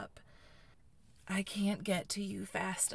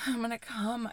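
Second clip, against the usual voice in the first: louder, higher, desperate warning; urgent cry; 4 semitones higher, 4 dB louder than usual. Acted. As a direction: blurt it out urgently. I tell you.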